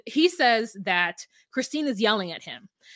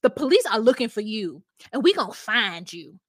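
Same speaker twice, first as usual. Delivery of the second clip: mock scolding; 5 dB louder than usual. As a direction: tell him off like a fed-up neighbor. Mocking Michael directly.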